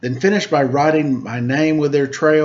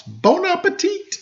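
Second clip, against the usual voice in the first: 1 French flourish. Acted.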